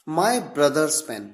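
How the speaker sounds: very slow, each word spaced; slow example reading. Shown as a demonstration. Teacher reading an English example very slowly. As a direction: read it out slowly for the class. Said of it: "मेरे भाई का pen".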